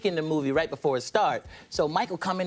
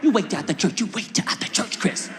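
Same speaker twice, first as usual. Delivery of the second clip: mother's warning. Retold or imitated. Acts mother threatening him.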